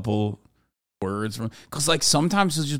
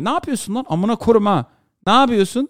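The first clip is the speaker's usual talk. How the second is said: angry Turkish; 9 semitones higher than usual. Retold or imitated. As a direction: snap at the cab driver in Turkish. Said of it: "I'll just, like, bust in".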